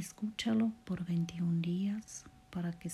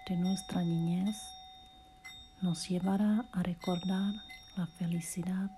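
guided meditation; 3 semitones higher than usual. Acted. Podcaster guiding a listener through relaxation and self-love affirmations, guided meditation voice. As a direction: lead the listener gently through each phrase, unhurried.

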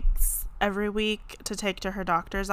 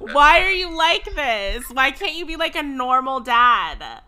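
exasperated tease; 4 semitones higher, 3 dB louder than usual. Real, not acted. Teasing dad on the phone.

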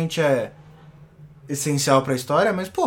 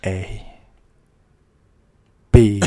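spelling it out; 5 semitones lower, 5 dB louder, slower than usual. Shown as a demonstration. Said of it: "O meu Twitter é arroba porpetone".

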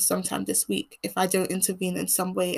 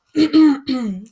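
one rough cough to clear the throat; a real throat clear that breaks off the sentence; 5 semitones higher, 8 dB louder than usual. Real, not acted. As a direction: clear a croaky throat mid-talk. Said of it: "sorry, my throat always gets".

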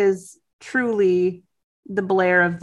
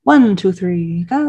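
imitating a lilting "One, two, three, go"; mimicked melodic "One, two, three, go"; melodic count-in; 2 semitones lower, 4 dB louder, slower than usual. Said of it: "a little bit more melodic".

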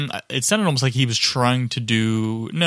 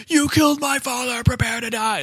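hammed-up revenge vow, much higher, half sung; mock movie avenger; 12 semitones higher than usual. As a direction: belt it like a swashbuckler's vengeance cry.

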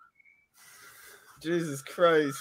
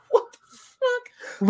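laughing disbelief; much slower than usual. Real, not acted. Laughing at the memory.

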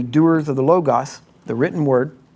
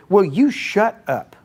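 higher, slower, a mock booming God voice; 6 semitones higher, slower than usual. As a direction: play God cutting him off, half-amused. God's voice in retold story.

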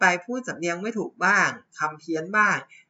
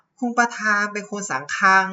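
mock Chinese accent; 6 semitones higher, 6 dB louder than usual. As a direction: imitate a Chinese speaker mangling สำคัญ into สังคัง, higher and louder. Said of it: "พอคนจีนขึ้นมา ขึ้นมาแปลก็บอก".

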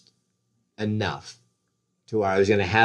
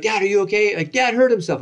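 imitating the kids; 11 semitones higher, 4 dB louder than usual. The kids are like.

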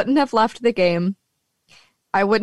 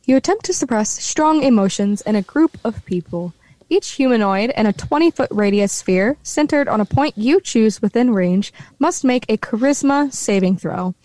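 narrator voice. Acted. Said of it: "get my narrator voice back on".

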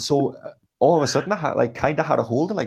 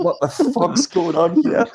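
loud, high, slow hammed-up bellow, laughing; brother's roar; 6 semitones higher, 6 dB louder, slower than usual. Brother crashing into the pub, laughing mock roar. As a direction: bellow it like a brawler mid-laugh. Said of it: "just went".

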